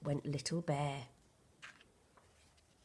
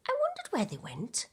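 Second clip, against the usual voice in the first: laughing; 10 semitones higher, 3 dB quieter than usual. A narrator's reading. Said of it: "laughed Bramwell".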